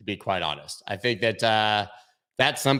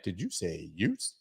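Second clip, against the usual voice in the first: put-on Brooklyn accent; 3 semitones lower, 9 dB quieter than usual. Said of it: "terrible, uh, Brooklyn accent I just did".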